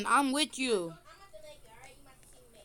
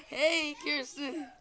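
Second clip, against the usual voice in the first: laughing; 4 semitones higher, slower than usual. Real, not acted.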